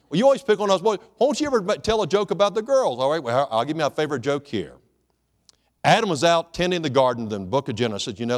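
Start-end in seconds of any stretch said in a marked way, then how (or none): 0.1-3.0 complaining men. Retold or imitated.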